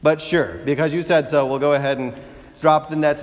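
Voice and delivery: dry, mocking compliance; sarcastic. Peter answering Jesus after a fishless night, sarcastic. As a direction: humour the master with a sigh. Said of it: "hear the sarcasm in his voice".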